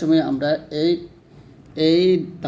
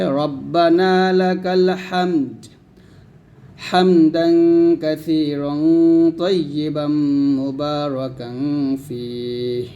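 drawn-out recitation; measured reading; slower than usual. Shown as a demonstration. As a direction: chant the dua slowly. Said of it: "এই দোয়াটা পড়ব".

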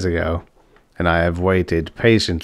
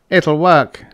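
higher, louder, snapped reply; sharp retort; 8 semitones higher, 6 dB louder than usual. A narrator's reading. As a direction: cut him off with certainty. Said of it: "said Giles Jackson sharply".

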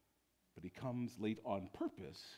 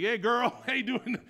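playful greeting; 14 semitones higher, 16 dB louder than usual. Pretend. Greeting Mary in heaven.

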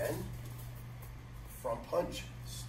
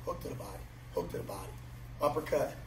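crisp drill calls, punchy rhythm; boxing coach calling combos. Real, not acted. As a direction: call each strike on the beat.

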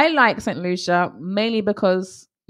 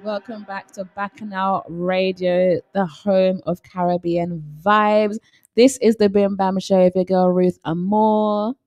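slow, measured show intro; radio host welcome; 2 semitones lower, slower than usual. Acted. Host greeting radio listeners after a break, slow show intro.

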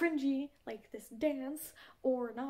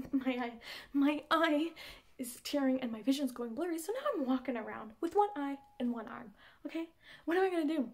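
hammed-up panic, bursts of loudness; desperate caller; 5 dB louder than usual. Telling her friend her eye is tearing, comically desperate. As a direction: pile up the woes, then plead loudly. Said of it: "because she is desperate".

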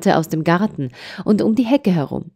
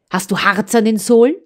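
grim; 5 semitones higher than usual. A narrator's reading. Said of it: "rief sie grimmig".

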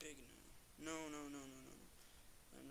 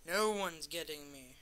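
triumphant shout; 12 dB louder than usual. Real, not acted. Boasting while escaping.

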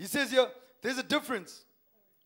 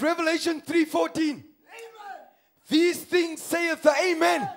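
raised, declamatory pulpit reading; preached scripture; 4 semitones higher, 7 dB louder than usual. Acted. Preacher proclaiming Revelation to the congregation, declamatory preaching. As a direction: proclaim the verse with force.

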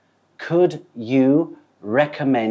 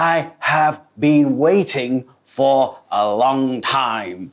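annoyed customer; 2 semitones higher, 3 dB louder, much slower than usual. Shown as a demonstration. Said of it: "บางครั้งเขาจะพูด".

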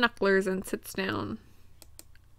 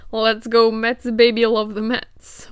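cheering yell; 5 dB louder, slower than usual. Real, not acted. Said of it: "Was the scream really necessary?".

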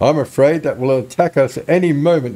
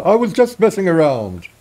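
higher, lighter character voice for the same line; NPC voice; 5 semitones higher than usual. Shown as a demonstration. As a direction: redo the line as the villager. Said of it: "I'll do it in this voice".

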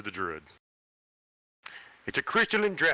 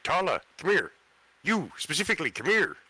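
put-on old man voice; 8 semitones higher than usual. Panicked character calls friend.

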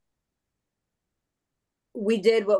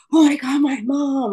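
imitating her son's excited gasp, high and loud; son's excitement; 7 semitones higher, 4 dB louder than usual. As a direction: mimic a thrilled kid seeing his mom on TV. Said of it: "And he was so excited".

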